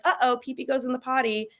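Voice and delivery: a gentle, breezy correction; lightly sing-song parent correction. Shown as a demonstration. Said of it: "you should be like".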